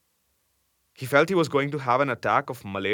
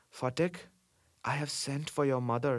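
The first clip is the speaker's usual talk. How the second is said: soft, slightly raised, gentle voice; hushed, near whisper; 3 semitones higher, 7 dB quieter than usual. A narrator's reading. Uncle comforts the sick boy about his mother, hushed.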